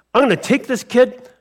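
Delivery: lightly voiced giant trash-talking; mock threat from the giant, a touch fast at the end; Goliath trash talk. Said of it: "That's trash talk".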